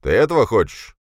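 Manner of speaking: loud, forceful berating; angry scolding. Acted. Boss angrily scolding a subordinate.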